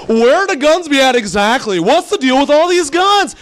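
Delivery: loud, high, hammed-up line reading; deliberately bad audition. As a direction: overplay it, stretched and rising. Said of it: "so I completely blow it on purpose".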